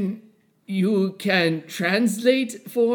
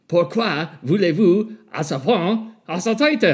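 fake French accent. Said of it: "fun little accent".

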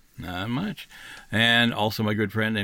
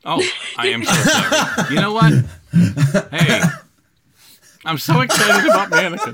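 laughing apology; 7 semitones higher, 7 dB louder than usual. Real, not acted.

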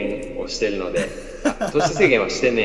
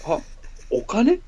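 creepy voice; 5 semitones higher than usual. Acted. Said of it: "怖、怖".

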